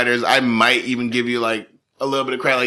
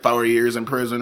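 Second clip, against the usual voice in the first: southern accent. Real, not acted. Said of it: "that southern accent came from".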